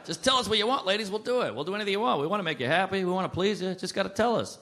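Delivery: high-pitched, insistent pleading; pleading appeal. Acted. Comic begging the ladies to say what they want, pleading. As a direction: plead earnestly on behalf of all men. Men pleading with women for instructions.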